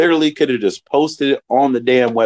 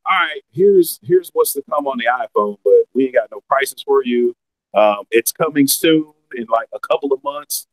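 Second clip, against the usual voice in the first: underwater. Real, not acted. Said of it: "your mic sounds like you're underwater".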